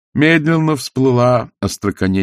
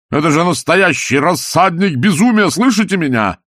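manic villain rant; 3 semitones higher than usual. Acted. Salzella's mad rant to Walter.

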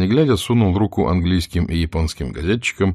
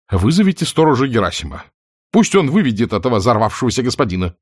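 indignant; 4 semitones higher, 3 dB louder, faster than usual. Acted. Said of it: "возмутились делегаты".

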